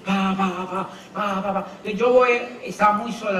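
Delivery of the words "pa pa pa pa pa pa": puffing pa pa in step with a jog; light rhythmic pa pa of a runner; jogging rhythm sounds. Shown as a demonstration. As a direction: mimic footsteps while jogging. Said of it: "Yo iba trotando así".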